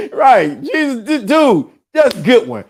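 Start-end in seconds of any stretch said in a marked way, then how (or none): none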